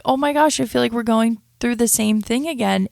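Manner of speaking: fed up that it happened again; exasperated. Retold or imitated. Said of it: "and I'm like".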